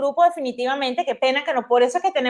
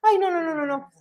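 breathy whispered no; whispering; 3 semitones higher, 5 dB quieter than usual. Real, not acted. Whispered protest.

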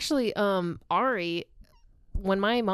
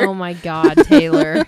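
exasperated shout; 13 dB louder, slower than usual. Real, not acted. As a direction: shout her name in disbelief. Reacting to the meth joke.

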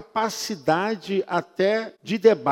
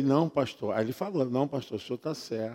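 meek reply; 5 semitones lower, 7 dB quieter, faster than usual. Retold or imitated.

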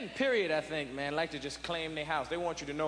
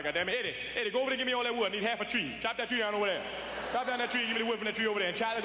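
Uncle Gus bossing; 4 semitones higher, faster than usual. Retold or imitated. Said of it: "it's like".

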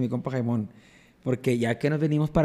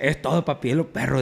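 lightly imitated friend's catchphrase; a hint of a pal's verbal habit; Jaimón. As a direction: do your buddy's way of talking. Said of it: "Así habla".

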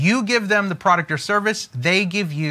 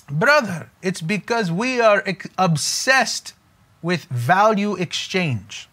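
put-on lightly done Jewish accent; a hint of a Jewish accent, unhurried; slower than usual. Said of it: "that was my Jewish accent".

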